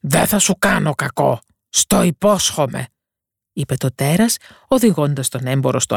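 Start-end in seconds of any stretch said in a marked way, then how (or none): 0.0-2.9 a lightly voiced beast, slow and reassuring; a hint of a kind creature; gentle beast. Beast's voice in the tale.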